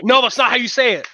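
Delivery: high-pitched pedantic correction; annoyingly accurate. Acted. Self-mocking host corrects others' pronunciation, annoyingly accurate. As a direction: correct them like an insufferable stickler. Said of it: "I try to be annoyingly accurate".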